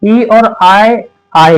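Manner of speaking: letters drawn out slowly; slow teacher spelling; slow spelled-out letters. Shown as a demonstration. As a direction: spell the pair slowly for the class. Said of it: "अब बताते हैं".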